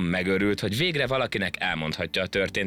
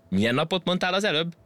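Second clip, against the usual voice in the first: high, puzzled question; taken aback; 11 semitones higher than usual. A narrator's reading. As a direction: break off the threat to ask, pitched high. Monkey taken aback mid-threat. (meghökkenve, magas hangon)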